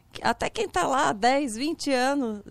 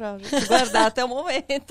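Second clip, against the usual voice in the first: termine a frase caindo no riso; rindo; 5 dB louder than usual. Real, not acted. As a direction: fala risonha, um pouco mais alta. Ri ao guardar o segredo. (entre risos)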